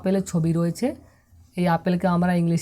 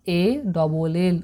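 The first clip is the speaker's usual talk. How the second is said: spelled out slowly; much slower than usual. Shown as a demonstration. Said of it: "তাকে আমরা ইংলিশে বলি".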